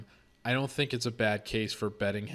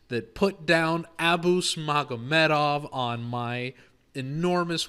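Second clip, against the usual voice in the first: raised, loud, worked-up voice; excited rant; 6 semitones higher, 9 dB louder, slower than usual. Real, not acted. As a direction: get fired up, building intensity. Ranting excitedly about rival fighter.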